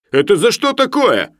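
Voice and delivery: high, loud, startled question; alarmed protest. A narrator's reading. Sharikov asks why he must pay, alarmed. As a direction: demand the reason in alarm. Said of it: "испугавшись".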